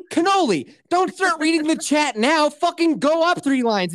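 high, exasperated scolding; reenacted rage. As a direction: scold a buddy in mock fury. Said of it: "I was just reenacting my rage".

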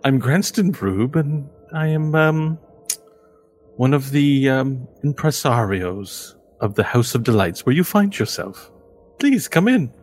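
lightly voiced showman, rising to a high invitation; Granston the impresario. Impresario introduces himself and invites the party in. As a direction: sweep them in with a flourish.

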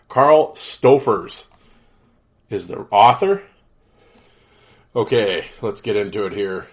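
stuffy blocked-nose voice; nasal voice. Real, not acted. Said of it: "allergy sounding, nasally voice here".

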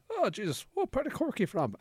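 chatty doctor. Retold or imitated. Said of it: "he just like going".

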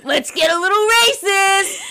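giggling through the line; cheeky laughing tease; laughing mock hype.

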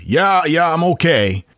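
high, folksy Maine voice; Maine accent. Retold or imitated. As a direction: play it like a cheerful Down East local. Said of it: "Tim said".

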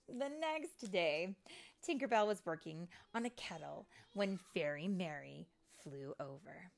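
animated read-aloud with lingering key words; storybook narration. A narrator's reading. Storyteller reading fairy tale to children, animated narration. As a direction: tell it dramatically to young children.

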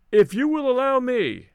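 called out high into the dark; calling out. A narrator's reading. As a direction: raise the voice to reach them in the dark. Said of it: "I called out".

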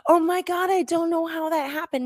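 high mock shocked innocence; fake surprise. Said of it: "she goes".

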